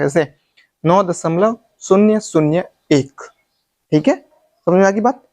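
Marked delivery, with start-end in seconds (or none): 0.8-3.2 slow, शून्य, शून्य, एक set apart; correct reading demo. Shown as a demonstration. Teacher showing the pronunciation, slow digit-by-digit reading. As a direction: space out शून्य शून्य एक slowly. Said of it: "वही उच्चारण होगा इसका".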